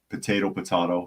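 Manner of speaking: "potato, potato" as po-TAY-to, po-TAH-to; "potato" first with AY, then with AH; two pronunciations. Shown as a demonstration. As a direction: switch "potato" from long ay to broad ah. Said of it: "depending upon your pronunciation".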